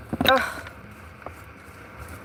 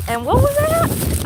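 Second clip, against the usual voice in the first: squeaky high disbelief; mock shocked squeak; 4 dB louder than usual. Real, not acted. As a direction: jump way up high and stretch it out. Surprised at price, squeaky high.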